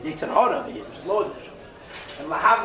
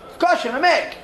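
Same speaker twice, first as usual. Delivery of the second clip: higher, laughing tempter voice; tempting Yetzer Hara; 7 semitones higher, 4 dB louder than usual. Acted. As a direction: coax it with a chuckle like the evil inclination. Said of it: "the shtus of the Yetzer Hara is".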